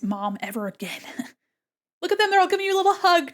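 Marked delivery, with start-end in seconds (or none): 2.0-3.3 high fast cooing. Real, not acted. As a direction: gush over the cute creatures. Cooing over cute drawing.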